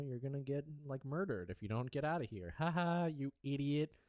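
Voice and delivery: a hint of a cruel husband gloating; mocking taunt. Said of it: "he's, like, talking about".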